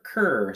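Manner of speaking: cur as a drawn-out K and R blend; blended sound. Shown as a demonstration. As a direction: stretch cur as one blended opening sound. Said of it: "so that's a blend".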